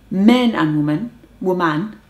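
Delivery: ordinary talk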